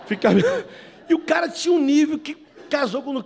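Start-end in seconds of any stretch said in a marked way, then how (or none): 0.3-1.0 high shouted burst of laughter; loud laughing shout. Real, not acted.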